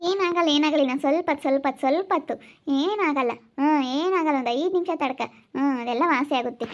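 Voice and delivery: lilting, repeated comforting; soothing reassurance. Acted. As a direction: coax the sufferer to bear it a little longer. Acted carer soothing patient in pain. (ಸಮಾಧಾನ ಪಡಿಸುತ್ತಾ)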